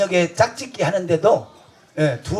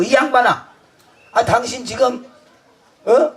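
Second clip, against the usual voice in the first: retold angry shout; 3 semitones higher than usual. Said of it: "막 내가 확 화를 냈지".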